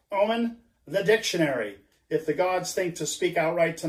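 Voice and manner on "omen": omen flung back high and loud; incredulous scoff; scornful outburst. Acted. Ahab throws Starbuck's word back at him, scornful.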